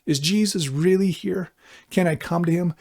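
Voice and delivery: high, wondering questions; incredulous hope. Retold or imitated. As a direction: ask in disbelief and hope. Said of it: "you might be saying".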